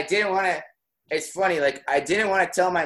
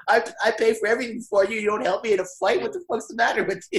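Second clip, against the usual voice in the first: mad dad; 6 semitones higher, faster than usual. Retold or imitated. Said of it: "He goes".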